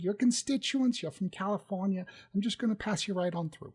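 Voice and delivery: a hint of the fussy receptionist, gushing; mousy secretary.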